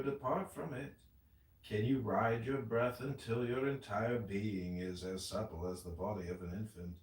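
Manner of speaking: slow, steady, solemn verse recital; measured scripture reading. Acted. Reading the tenth verse of the Tao to friends, measured recital. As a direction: read each question as a measured contemplative line.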